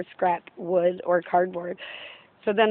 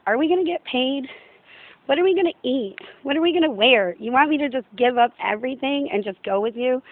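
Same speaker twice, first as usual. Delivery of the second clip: whiny disciples; 5 semitones higher than usual. Retold or imitated. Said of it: "they're always like".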